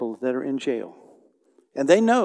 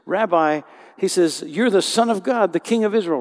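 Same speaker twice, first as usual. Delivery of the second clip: awed exclamation; 4 semitones higher, 6 dB louder than usual. Acted. Nathanael exclaims in awe.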